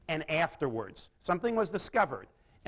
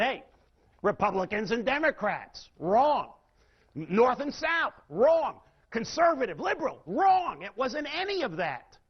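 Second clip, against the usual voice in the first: emphatic dismissal; 4 semitones higher than usual. Retold or imitated. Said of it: "So they figured".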